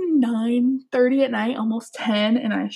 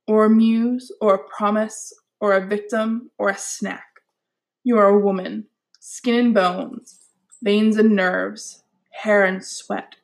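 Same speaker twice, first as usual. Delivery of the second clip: lightly dramatic spoken-word reading; poetry voice. Acted. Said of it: "let me get to my poetry voice".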